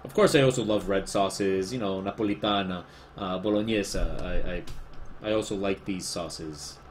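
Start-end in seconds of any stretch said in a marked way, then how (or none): 2.0-2.8 Spanish-accented sauce name; Spanish pronunciation. Real, not acted. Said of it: "just saying them in Spanish". 3.4-4.0 Spanish-accented sauce name; Spanish pronunciation. Real, not acted. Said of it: "just saying them in Spanish".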